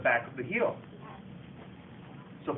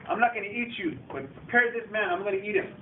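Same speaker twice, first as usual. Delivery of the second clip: giant giving orders; 4 semitones higher than usual. Retold or imitated. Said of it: "he tells his guy".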